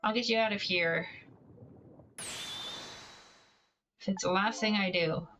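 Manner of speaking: very slow, hammed-up heroic pledge; dramatic vow. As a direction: drag it out like a movie hero. Dramatic vow while reading.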